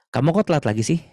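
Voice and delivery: high, chiding question; demonstrated Indonesian telling-off; scolding reproach. Shown as a demonstration. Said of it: "sikap bicara menegur".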